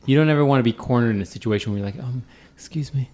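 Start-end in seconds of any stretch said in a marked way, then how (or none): 2.0-3.1 higher, hesitant customer asking a favor; awkward request. Acted. Cornered shopper asking staff to open a cabinet, awkward. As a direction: timidly ask for help in a higher voice.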